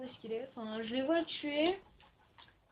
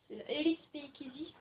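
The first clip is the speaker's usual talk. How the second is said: French-accented English; 2 semitones higher than usual. Real, not acted. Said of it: "Vive mon accent anglais".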